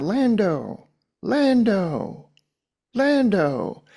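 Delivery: a man calls Lando again and again across the scene; calling out a name. Retold or imitated. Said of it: "he's just going".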